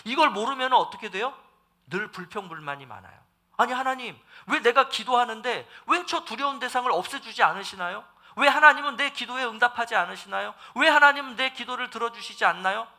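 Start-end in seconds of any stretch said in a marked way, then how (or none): 3.6-12.9 complaining prayer. Retold or imitated. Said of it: "이렇게 우리는 살아갈 수밖에".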